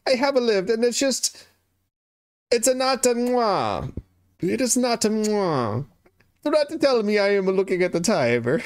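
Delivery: high-pitched, hammed-up Italian accent. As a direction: protest like a cartoon Italian, Italian accent. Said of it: "doing more of the Italian hand".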